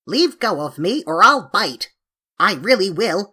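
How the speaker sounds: cross threat. Acted. Samoyed threatens to bite.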